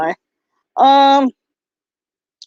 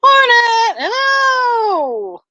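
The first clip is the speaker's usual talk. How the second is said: high, loud call across the room; 14 semitones higher, 3 dB louder, much slower than usual. Real, not acted. Vlogger calling out to Hornet, loud and high. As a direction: shout a name to get attention.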